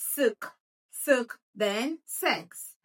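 "suk" with a short, weak schwa vowel; schwa sound. Shown as a demonstration. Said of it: "The U there is giving us a schwa sound".

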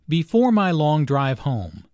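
"home" emphasized with a falling glide; demonstrated stress on "home"; emphasis on HOME. Shown as a demonstration. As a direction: lean on "home" for light humor. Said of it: "emphasis and intonation on home".

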